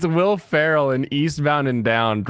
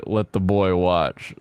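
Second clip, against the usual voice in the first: low Will Ferrell line; 7 semitones lower, slower than usual. Retold or imitated. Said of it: "so if I ever say".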